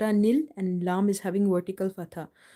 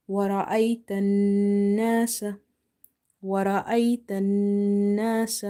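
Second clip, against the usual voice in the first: measured recitation with a long held nasal n; Quran recitation demo. Shown as a demonstration. Teacher modelling the verse for learners, measured recitation. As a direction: recite it evenly, holding doubled sounds.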